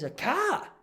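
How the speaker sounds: high, loud incredulous old man, retold; baffled disbelief. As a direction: act out a confused old bloke who's never heard of a car. Old resident baffled by cars.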